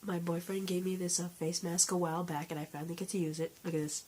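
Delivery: stuffy nose from a cold; blocked nose. Real, not acted. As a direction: talk through a blocked nose. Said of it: "I can't breathe through my nose".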